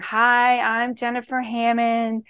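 mock-serious voicemail greeting, slightly subdued; really serious. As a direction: recite it like a dull, businesslike greeting. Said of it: "You make it really serious".

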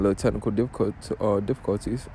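real slip of the tongue, then a correction; tripping over words. Real, not acted. Podcaster explaining his setup troubles, tripping over his words. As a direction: stumble on the word and restart. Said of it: "getting tripped up over my words".

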